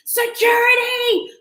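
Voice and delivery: high, drawn-out yell for security; screaming for security. Retold or imitated. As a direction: call out for security as if it's urgent. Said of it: "I'm screaming".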